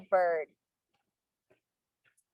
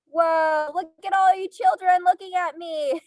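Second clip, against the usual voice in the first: excited; 6 semitones higher, 4 dB louder than usual. Acted. Delighted at the children.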